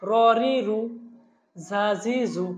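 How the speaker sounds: short vowels in even groups of three, as in "বা, বি, বু"; quick, unstretched syllables. Shown as a demonstration. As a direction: recite "তা, তি, তু" briskly without drawing out vowels. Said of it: "আমরা তাড়াতাড়ি পড়বো, কোনো টান দিব না".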